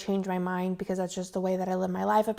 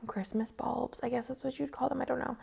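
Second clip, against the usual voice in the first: whispered aside; 4 semitones higher, 11 dB quieter than usual. Real, not acted. Unsure aside under breath.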